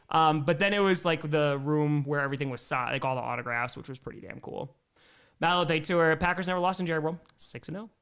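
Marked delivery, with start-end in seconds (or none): 3.8-4.7 hushed awe. Real, not acted. Awed memory.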